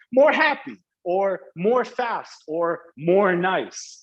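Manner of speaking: lightly playing the student who says it wrong, drawn out; mock student mistake. Teacher imitating students' typical error, lightly mocking. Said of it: "but then they'll say".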